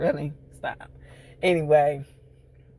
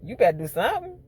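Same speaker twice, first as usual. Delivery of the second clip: high, pitched-up outraged scold; yelling at the TV; shrill outrage at a bad mother; scolding the character; 12 semitones higher than usual. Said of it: "I'm like".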